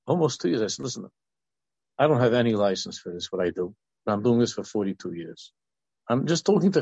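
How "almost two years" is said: "two" raised and leaned on; stress on two. Real, not acted. Echoing the coach's answer, stress on "two". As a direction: hit "two" in disbelief.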